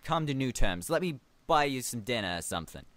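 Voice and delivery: put-on light, improvised New York accent; a touch of New York, making amends. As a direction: slip into a casual New Yorker. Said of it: "this guy has a New York accent".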